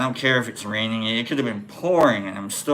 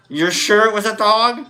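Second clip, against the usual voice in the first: Larry David doubt; 7 semitones higher, 4 dB louder than usual. Retold or imitated. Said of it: "I'm Larry Daviding these".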